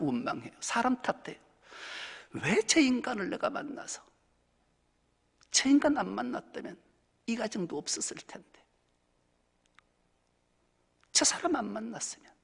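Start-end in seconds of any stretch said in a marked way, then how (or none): 2.3-12.3 blaming others. Retold or imitated. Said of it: "남을 탓하게 되지요".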